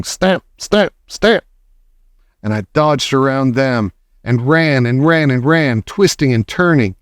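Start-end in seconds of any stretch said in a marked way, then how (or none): 0.0-1.4 stamping. A narrator's reading. Narrator imitates stamping boots.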